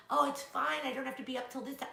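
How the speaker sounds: self-excusing inner voice. Retold or imitated. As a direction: brush it off to yourself, fast. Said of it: "I need, like".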